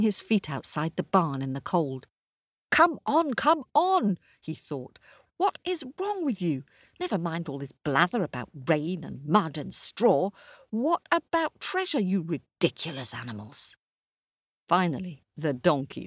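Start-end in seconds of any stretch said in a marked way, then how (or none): 2.7-13.8 impatient. Acted. Charles's impatient thoughts.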